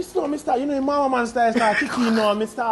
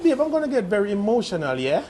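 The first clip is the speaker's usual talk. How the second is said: lightly imitated English girlfriend accent; a hint of an Englishwoman's accent. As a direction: ask sweetly in a mild mock English accent. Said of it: "that England woman".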